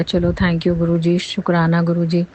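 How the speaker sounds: slow, heartfelt thanks to the guru; slow sincere thanks; grateful thanks. Real, not acted. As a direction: let the gratitude slow you down. Thanking guru after relief.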